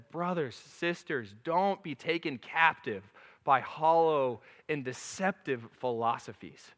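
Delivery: a slow, measured reading of the verse; scripture reading. Acted. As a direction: read it out like a solemn verse. Reads scripture slowly.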